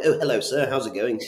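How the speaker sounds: a hint of a polite posh greeting. Salesman greeting a posh landlord, mild posh voice. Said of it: "Like Mister Posh".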